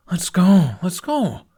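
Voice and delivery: high, loud eager let's go; impatient shout. Acted. Toothless bouncing on the spot, begging to leave, loud and eager.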